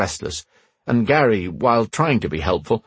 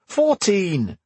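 put-on high snapped reply from a boy; sharp retort; 11 semitones higher than usual. A narrator's reading. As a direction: fire it back fast. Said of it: "Connell shot back".

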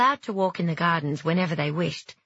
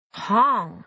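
put-on squeaky baby dragon; 4 semitones higher, 4 dB louder than usual.

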